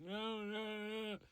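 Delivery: high, loud wailing refusal; high moaned protest; scared monster. Retold or imitated. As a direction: wail it like a frightened creature. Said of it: "he went".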